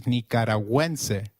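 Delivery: Nicaragüense said "nee-kah-rah-GWEN-seh"; ü sounded as w. Shown as a demonstration. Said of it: "let's try saying Nicaragüense".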